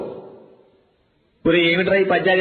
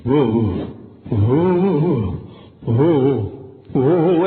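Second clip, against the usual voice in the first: put-on eager kids; 5 semitones lower, much slower than usual. Kids eagerly raising hands.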